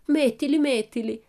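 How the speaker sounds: high, loud urging; child shrieking with eagerness; excited shriek. A narrator's reading. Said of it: "strillò Pippi".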